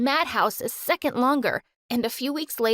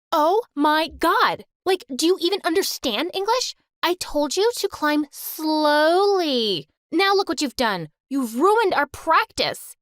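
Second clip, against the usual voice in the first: furious outburst; 4 semitones higher, 3 dB louder than usual. Acted. Cheer captain screaming at Mandy after the pyramid falls, furious. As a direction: explode at her, drawing each phrase out. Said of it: "Anna went ballistic".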